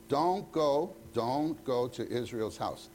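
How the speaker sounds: a hint of a scolding mother, slowed; mock stern mom, drawn out; mom warning. Mother warning her son off a bad friend's house. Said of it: "your mom says".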